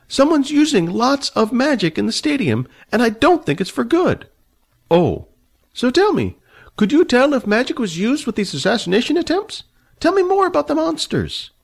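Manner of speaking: put-on high, fussy old man, haughty and annoyed. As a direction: play the prickly old dragon rider, voice pitched high. Old man asks about magic.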